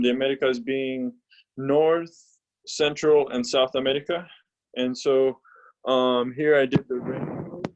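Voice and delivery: muffled, mic covered by a hand; hand over the mic. Real, not acted. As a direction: talk with a hand blocking the mic. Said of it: "you're covering the microphone with your hand".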